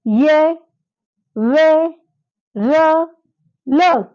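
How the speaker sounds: ये, वे, र, ल said slowly and apart; letter demo. Shown as a demonstration. Teacher prompting class to say letters, clear slow recitation. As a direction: recite each letter for students to copy. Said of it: "चलिए, आप बोल के देखिए".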